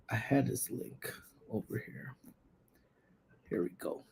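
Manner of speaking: soft muttered aside; muttering to self. Real, not acted. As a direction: mumble it under your breath.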